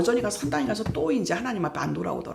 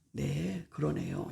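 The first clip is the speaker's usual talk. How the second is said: meek agreement; 6 dB quieter, much slower than usual. Shown as a demonstration. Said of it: "이렇게 해줘".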